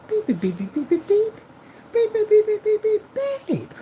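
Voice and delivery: high, loud angry beeps in rapid bursts; bleeped-out cursing. Acted. Projector cursing out its owner, censored fury. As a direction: curse furiously using only shrieked beeps. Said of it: "as I'm cursing you out".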